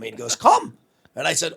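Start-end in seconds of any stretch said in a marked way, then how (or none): 0.4-0.8 very high, loud mock challenge; retold shouted dare. DJ daring the caller to show up, high mock shout. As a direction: imitate a DJ yelling a one-word dare. DJ dares him back, retold.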